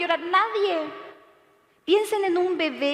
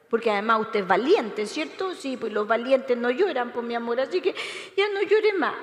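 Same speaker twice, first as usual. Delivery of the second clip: mock cooing adult. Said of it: "qué vamos a hacer todos los adultos".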